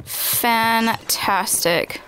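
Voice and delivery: slow, drawn-out sarcasm; sarcastic. Real, not acted. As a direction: stretch it out, dripping sarcasm. Sarcastic reaction, low on bullets.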